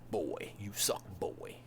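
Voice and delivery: low whispered growl; Kratos whisper. Retold or imitated. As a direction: sneer it quietly like Kratos. Kratos voice insult.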